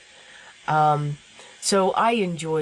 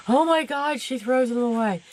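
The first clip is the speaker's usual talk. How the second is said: mock shocked scream; 8 semitones higher than usual. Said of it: "you probably all just started screaming".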